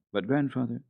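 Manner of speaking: put-on girl pressing her grandfather about the bird; urgent question. A narrator's reading. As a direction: ask insistently, needing to know. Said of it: "asked Heidi urgently".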